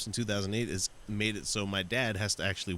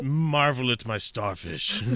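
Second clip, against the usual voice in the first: pompous cat voice; 3 semitones higher, 4 dB louder, slower than usual. Pretend. Voicing the cat.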